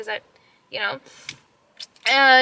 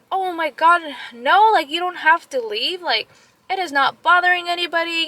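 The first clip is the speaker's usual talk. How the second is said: sympathetic ladies; 5 semitones higher, 3 dB louder than usual. Retold or imitated. Ladies reassure her, retold.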